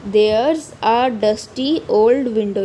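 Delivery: put-on very slow, each word laid out for children; slow poem recital. Teacher rereading the poem line slowly to her class. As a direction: read the verse slowly, word by word.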